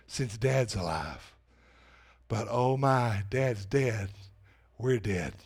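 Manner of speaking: fearful brothers. Retold or imitated. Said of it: "are fearful".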